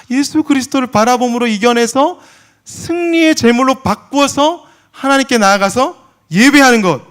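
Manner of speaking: loud, rising, slow sermon cry; preaching. Acted. Preacher proclaiming victory to the congregation. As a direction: proclaim it to the whole church.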